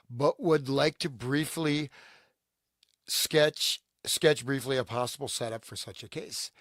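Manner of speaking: measured, deliberate document reading; reading a letter aloud. Acted. Co-host reads an old letter to the panel, read-aloud delivery. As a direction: read it out clearly for listeners.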